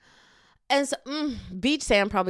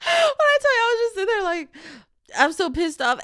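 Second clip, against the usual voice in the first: higher, louder retake of the same line, full exasperation; louder, higher, truly pissed off; exasperated outburst; 10 semitones higher, 5 dB louder than usual. Real, not acted. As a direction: punch it up the second time, really fed up. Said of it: "repeats the line louder".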